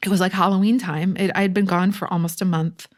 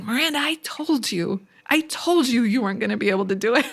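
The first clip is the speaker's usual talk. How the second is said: high, lightly mocked scolding; mock indignant telling-off; imitating pissed-off mother; 5 semitones higher than usual. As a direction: do a mother's I-told-you-so, quickening. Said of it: "She was pissed".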